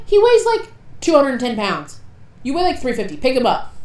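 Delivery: retold exasperated protest, starting high and loud; exasperated arguing. Narrator retelling how they argued Caleb into picking him up, exasperated. Arguing a friend into lifting someone.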